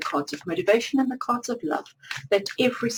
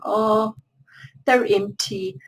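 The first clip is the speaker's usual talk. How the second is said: acted mild letdown, slightly louder; mildly disappointed; 4 dB louder than usual. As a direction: voice the card figure's understated disappointment. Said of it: "she's a little bit disappointed".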